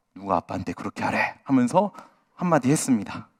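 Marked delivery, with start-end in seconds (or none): 0.2-1.4 very low, hushed voice. A father retells scolding his child, in a very low voice. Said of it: "아주 낮은 목소리로".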